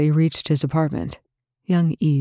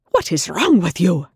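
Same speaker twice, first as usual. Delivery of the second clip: shouted; 3 semitones higher, 4 dB louder than usual. Acted. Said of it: "the other man shouted".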